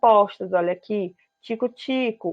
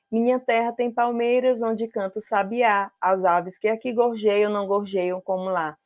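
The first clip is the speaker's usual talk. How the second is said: poem recitation. Acted. Teacher reciting Gonçalves Dias to students, poetic reading. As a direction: read as a gentle poem recital.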